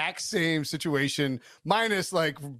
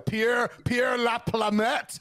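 put-on French accent; 6 semitones higher, much slower than usual. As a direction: belt out a made-up French name. Making up a French coach name.

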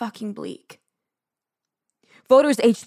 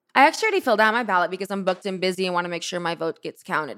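ordinary talk

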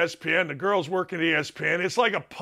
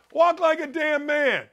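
higher and punched, WALK hit hard; emphatic rant; 8 semitones higher than usual. Real, not acted. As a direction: bark out "Walk like a damn man" as a command. Ranting about effeminate men.

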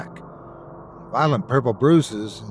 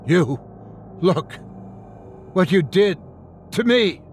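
inhuman scream; 6 semitones higher than usual. A narrator's reading. Cursed girl screaming at the uncle, rising to a shriek. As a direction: hurl it at him, climbing with each word. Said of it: "screamed in a deep, inhuman voice".

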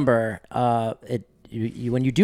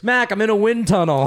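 mock caller, raised and loud; calling over wind; 6 semitones higher, 5 dB louder than usual. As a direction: shout it as if over car-window noise. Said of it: "in a car with the windows open".

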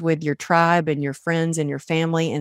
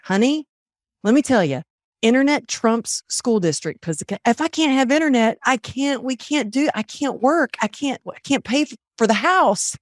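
exasperated plea; 6 semitones higher than usual. Retold or imitated. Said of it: "And I was like".

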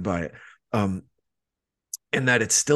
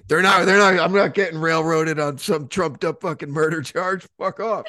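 mock defiance; 5 semitones higher, 4 dB louder than usual. Mock-defiant inner voice, laughing.

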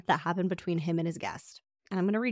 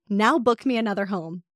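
louder, pushy command; bossy renter demand; 6 dB louder than usual. Retold or imitated. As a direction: order him around.

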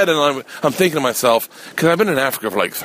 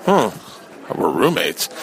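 baffled echo; 5 semitones lower, slower than usual. Retold or imitated. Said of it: "And I was like".

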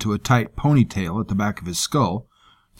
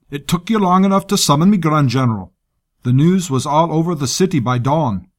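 higher, brash soldier voice; gruff commander voice; 5 semitones higher, 4 dB louder than usual. Acted. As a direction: play a blunt, rude commander. Gruff commander confronts general.

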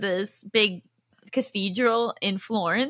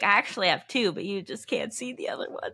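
whispered aside; 3 semitones lower, 9 dB quieter than usual. Retold or imitated. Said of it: "and I was like".

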